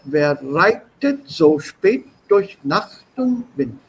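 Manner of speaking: slow, rising and falling recital of Erlkönig; teacher reciting Erlkönig to show rise and fall; rhythmic poem reading. Shown as a demonstration. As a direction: read it with a galloping lilt. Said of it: "This is a rise and fall".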